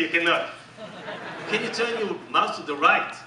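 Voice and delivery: normal talking voice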